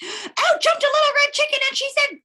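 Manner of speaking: high, excited little chicken bursting in; bright high interrupting chick; squeaky chicken voice. Acted. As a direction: pop in high and eager.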